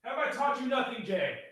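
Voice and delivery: high, soft mock reproach; mock scolding. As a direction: playfully chide from a distance. Repeats mock scolding, from off mic.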